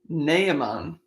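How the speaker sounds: Naaman said slowly as NAY-uh-mahn, rising at the end; careful name pronunciation. Real, not acted. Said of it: "hopefully saying that right".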